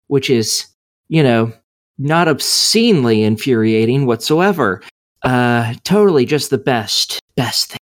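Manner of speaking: mild dripping sarcasm; feigned approval with dry sarcasm; sarcastic. Real, not acted. Player complaining about an infuriating game mechanic, sarcastic. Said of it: "if you can't hear the dripping sarcasm".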